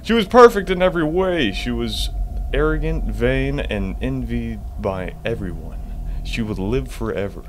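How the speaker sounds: reading a found note to viewers; reading a note aloud. Shown as a demonstration. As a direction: read the note with drama. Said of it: "Another note".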